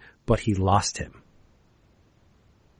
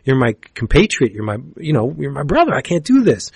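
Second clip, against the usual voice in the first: higher, shocked no way; shocked refusal; 3 semitones higher than usual. Retold or imitated. X-O refusing to kill his brother, higher and shocked. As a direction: refuse it like he can't believe the ask. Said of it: "And X-O's like".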